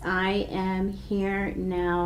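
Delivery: slow, soft, drawn-out mantra; gentle slow repetition. Shown as a demonstration. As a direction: say it like a calm inner chant. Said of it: "say it in kind of a sing-songy voice".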